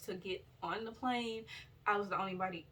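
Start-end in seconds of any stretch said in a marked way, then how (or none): 1.9-2.7 slurring, tired speech; slurred words. Real, not acted. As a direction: blur the words together sleepily. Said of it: "why do I keep slurring my words".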